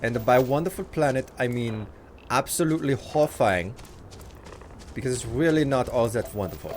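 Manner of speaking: tour the planet in a mock German accent. Streamer doing German for a chat request, light German accent. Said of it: "you want me to do German".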